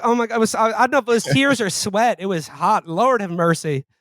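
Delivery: high, swooning flamboyant voice; campy Andrew Jackson. Pretend. Podcaster voicing Andrew Jackson as a camp queen, high and swooning. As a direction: fan yourself and gush dramatically. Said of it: "that's what Andrew Jackson sounded like".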